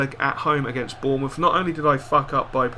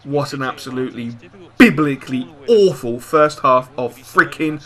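disgusted rant; 6 dB louder than usual. Real, not acted. Disgusted at the half.

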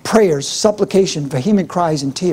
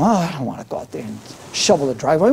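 put-on childish whine; 4 semitones lower, 5 dB quieter, faster than usual. Kid whining about shoveling snow.

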